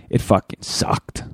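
slow breathy groan of misery; unvoiced mutter. Real, not acted. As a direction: mutter it, drained. Recalling vomiting misery.

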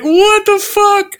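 high, slow, disbelieving what the fuck; mock woken-up accountant; stunned accountant. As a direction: drag it out, totally baffled.

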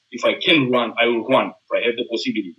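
quick, run-together delivery; very fast. Real, not acted. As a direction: say it quickly, almost in passing. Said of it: "you said it very, very fast".

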